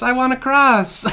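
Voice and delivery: loud, high, slow whine; whiny wail. Real, not acted. Player stuck on the board, loud high whine. Losing, whining.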